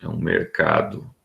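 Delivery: hoarse, failing voice from the flu; voice giving out. Real, not acted. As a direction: voice cracking and giving out. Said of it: "a minha voz tá falhando mesmo".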